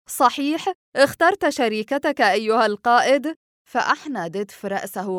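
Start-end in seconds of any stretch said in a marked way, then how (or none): 0.1-3.4 bright, louder and higher burst of happy surprise; joyful exclaim. A narrator's reading. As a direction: shout the news with delight. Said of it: "وصاح نافا بفرح". (صيحة فرح عالية)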